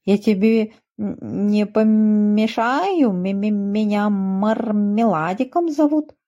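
a lightly voiced bashful little goat; shy stammering goat kid. A narrator's reading. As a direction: stumble shyly over the words like a timid kid. Shy goat kid introduces himself.

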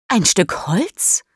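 hushed, slow whisper of disbelief; a wary whisper to herself; whispered wonder. Acted. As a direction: breathe it out, barely voiced. Mischa wonders at floating object.

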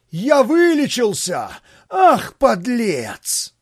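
frantic scream. A narrator's reading. Pavel bursting from the wardrobe, frantic scream. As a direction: scream it out desperately. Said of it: "истошно закричал".

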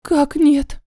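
understated stunned question; stunned, strange voice. A narrator's reading. Friend hearing no protection was used, mildly stunned. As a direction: ask as if knocked sideways. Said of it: "спросила она чужим голосом".

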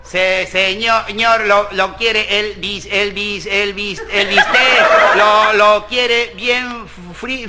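slow, halting waiter's reply; stuttering waiter. Acted. Stuttering waiter answering the diner, halting and slow. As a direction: stumble through the order. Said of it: "stuttering waiter replies".

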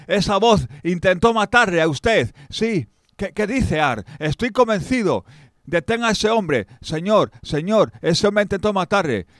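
high, loud, urgent warning; urgent shouting. Acted. Servant shouts a warning to the king, high and loud. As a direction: cry out the alarm to the king.

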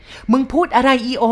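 put-on high, loud, startled old woman; old cook hearing the boy was shot, aghast; shocked cry. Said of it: "พูดออกมาอย่างตกใจ".

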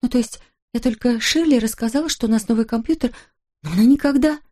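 a scared wife pleading with her husband; a frightened wife justifying herself to her husband; frightened excuse. Acted.

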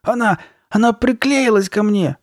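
high, loud, drawn-out wail; slow high-pitched frightened cry; panicked. Acted. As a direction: wail it in horror, stretching the words. В панике: маска приклеилась.

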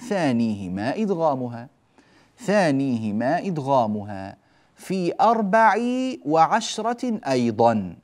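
measured didactic chant of a verse; verse recitation. Shown as a demonstration. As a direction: recite it with lengthened vowels. Reciting verse being explained.

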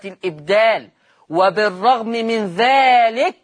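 measured formal reading, long vowels drawn out; slow dictation. Shown as a demonstration. Teacher gives the answer to students, slow dictation.

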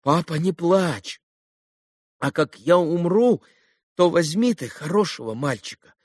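tender dying plea. A narrator's reading. Dying boy comforts father.

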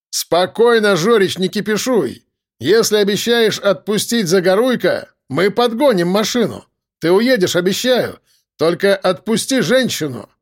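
calming shout. Acted. Narrator calming gunman loudly.

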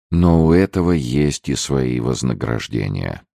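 ominous trailer narration, big opening; dark movie trailer voice; horror trailer voice. Acted. Blurb read like trailer. (голос зловещего трейлера)

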